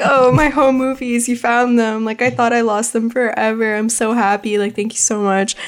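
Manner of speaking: grateful and strangely halting, Walken style; Christopher Walken impression. Creature gushing over his found home movies, in a Walken impression. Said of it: "apparently he's Christopher Walken also. That's how he spoke".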